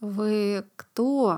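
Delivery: stammering. Narrator reading a girl who has just stopped screaming, stammering. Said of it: "запинаясь".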